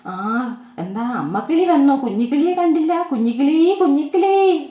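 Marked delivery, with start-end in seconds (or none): 3.1-4.7 calling out loud and high for her lost chick; mother bird calling. Acted. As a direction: call her chick across the trees, louder and higher. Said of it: "വിളിക്കുവാണേ".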